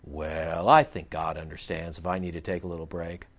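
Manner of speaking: mock excuse. Mocks a lazy churchgoer's excuse.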